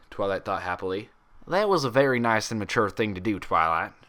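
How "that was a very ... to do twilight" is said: warm approval. Acted. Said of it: "with warm approval".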